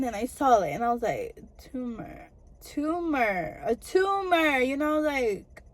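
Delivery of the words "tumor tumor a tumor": dawning shock. Real, not acted. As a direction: let the realization build with each repeat. Realizing the diagnosis, repeating.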